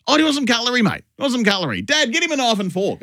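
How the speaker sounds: son's eager voice offering a knife and fork; son offering cutlery. Retold or imitated. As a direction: play the helpful thirteen-year-old. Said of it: "and says".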